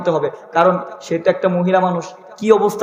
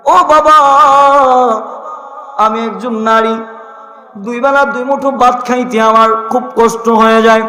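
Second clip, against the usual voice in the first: tearful plea. Acted. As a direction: plead with tears to her father-in-law. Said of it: "দুটা চোখের পানি ছেড়ে দিয়ে বলে".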